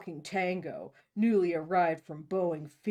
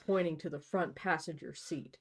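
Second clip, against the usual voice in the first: normal talking voice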